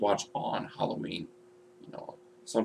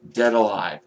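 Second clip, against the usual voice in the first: the title called out louder; announcing the title; 6 dB louder than usual. Real, not acted. Vlogger naming his top gore film, punchy announcement.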